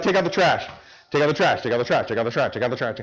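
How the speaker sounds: chore order repeated on a loop, sinking in pitch; mock nagging parent. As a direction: lightly imitate a parent droning the same order.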